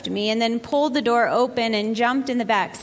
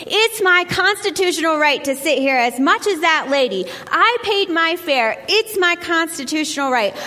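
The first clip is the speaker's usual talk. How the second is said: high-pitched insistence; 5 semitones higher, 3 dB louder than usual. Retold or imitated. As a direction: repeat it stubbornly in a high young voice. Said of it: "in my high-pitched voice".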